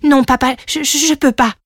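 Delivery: high, stammering refusal; pleading little dragon. Acted. Young dragon tells his father he can't, anxious stammer. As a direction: stammer it out to a parent. Son balks at the oath.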